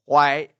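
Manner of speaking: "Why" in Chinese first tone. Shown as a demonstration. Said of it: "read it in the first tone".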